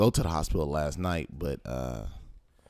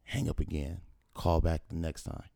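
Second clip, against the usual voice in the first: ordinary talk, nothing marked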